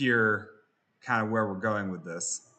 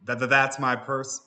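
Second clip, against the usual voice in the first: stutter effect; 3 semitones higher, 3 dB louder than usual. Retold or imitated. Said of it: "So he goes".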